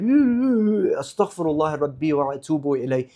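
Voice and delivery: fussy pious cooing, then hushed murmured prayer; prim and pious. Retold or imitated. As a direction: parody a stiff upper-lipped holy man. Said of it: "perfect and prim and stiff upper-lipped".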